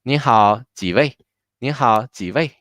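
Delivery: 您好 and 几位 run together quickly; whole thing fast. Shown as a demonstration. Teacher modeling the waiter's greeting for students, whole thing fast. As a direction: say the greeting in one brisk go. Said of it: "The whole thing fast".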